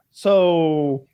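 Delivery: squeaky-high mock question; Woody impression. Imitates Woody's eager question.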